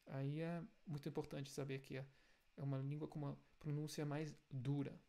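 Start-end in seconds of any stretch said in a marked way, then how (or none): none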